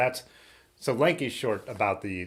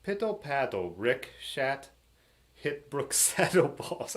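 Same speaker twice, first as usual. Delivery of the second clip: hammed-up British accent, higher pitched; attempted British accent; 5 semitones higher, slower than usual. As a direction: have a clumsy go at a British accent, breaking into laughter. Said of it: "Now I gotta do a British accent".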